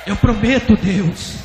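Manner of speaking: loud, high cry of promise; impassioned vow. Retold or imitated. Pastor promising God from today, loud fervent vow. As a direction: shout it upward, dropping briefly on God's name.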